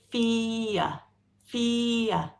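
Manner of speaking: fear said slowly with no r, ending in a vowel; British non-rhotic fear; British pronunciation. Shown as a demonstration. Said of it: "We say".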